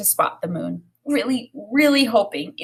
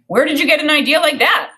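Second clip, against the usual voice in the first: higher, louder surprised father; a father taken aback at the table; dad's voice; 8 semitones higher, 5 dB louder than usual. A narrator's reading. Dad questions Omar at dinner.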